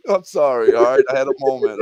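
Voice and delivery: giggly and stoned, laughing between words. Real, not acted. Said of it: "Dude, I'm so stoned right now".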